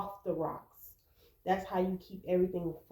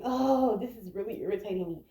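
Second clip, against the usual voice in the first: mock irritation. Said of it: "Don't be angry".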